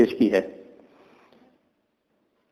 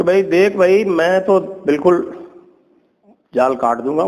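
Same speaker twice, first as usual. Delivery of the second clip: higher-pitched, lightly acted sly jackal; a hint of a wily jackal stalling; feigned helpfulness; 6 semitones higher than usual. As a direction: protest willingness you don't mean. Jackal feigns willingness to help trapped deer.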